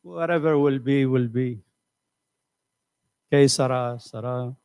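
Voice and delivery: low, sagging resigned voice; a mild mock of someone who has quit; resigned sigh. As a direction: give up, let the words sink and fade. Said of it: "Sounds like this".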